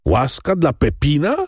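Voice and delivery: high outraged cry; condemned man screaming at the pardon; screamed question. A narrator's reading. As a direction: scream it in disbelief. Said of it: "wrzasnął Andrea".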